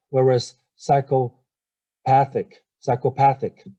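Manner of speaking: psychopathic, slow, path stressed; teacher contrasting stress on path. Shown as a demonstration. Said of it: "is on the third syllable".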